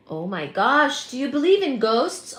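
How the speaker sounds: amazed question, pitch swinging up. Real, not acted. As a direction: react astonished to a ghost claim. Reacting to ghost comment.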